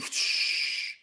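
soft, airy whoosh of a door opening; imitated door hiss. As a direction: imitate a steam room door hissing open. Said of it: "I hear the door open".

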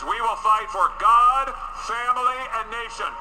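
rally speech. Acted. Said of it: "answer the call that says".

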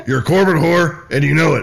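Bill Hicks impression. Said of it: "was that Bill Hicks".

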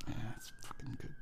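soft unvoiced whisper, a bit quick; whispered relief at the funeral; under the breath. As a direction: murmur it like a mourner at a funeral. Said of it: "under your breath".

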